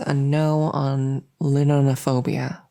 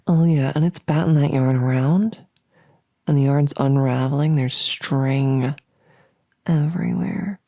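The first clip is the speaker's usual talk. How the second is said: much louder, gleeful build-up; loud excitement; 8 dB louder than usual. Acted. Monster hyping the yarn scene, loud and gleeful. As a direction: burst out as the scene escalates.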